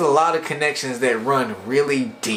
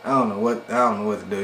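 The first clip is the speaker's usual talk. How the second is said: mildly shaken; 4 semitones lower, 3 dB quieter, faster than usual. Retold or imitated. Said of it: "He is done".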